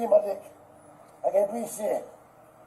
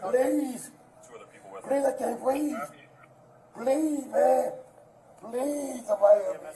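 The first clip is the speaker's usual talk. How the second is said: desperate pleading; 3 semitones higher than usual. Real, not acted. Begging while restrained.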